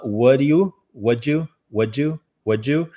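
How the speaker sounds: "Would you" run into one word, "woju"; short linked "Would you", rising; linked sounds. Shown as a demonstration. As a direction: repeat the reduced "Would you" as a rising model. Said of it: "Eu só vou ensinar".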